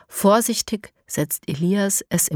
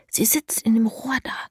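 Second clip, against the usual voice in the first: whisper; 5 semitones higher than usual. Acted. Lara tells the children where the piglet sits, whispering. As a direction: whisper it, pointing at the pipe. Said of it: "flüstert Lara".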